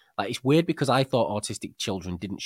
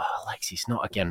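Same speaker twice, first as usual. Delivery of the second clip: weary sigh; 6 dB quieter than usual. Retold or imitated. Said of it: "I was like".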